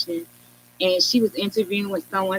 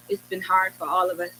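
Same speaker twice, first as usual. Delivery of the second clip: a lightly voiced, gentle grande dame; hint of a wise mentor, unhurried; Phylicia Rashad way; 3 semitones lower, 5 dB quieter than usual. Guest imitating the actress consoling her, lightly and gently. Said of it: "and that Phylicia Rashad way".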